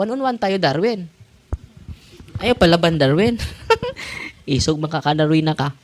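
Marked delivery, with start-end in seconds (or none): 0.0-1.1 a high mocking demon's dare; demon taunt. Priest imitating a demon's taunt, high jeering voice. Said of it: "sinabihan ako". 3.4-4.4 high laugh. Real, not acted. Laughing at own demon story.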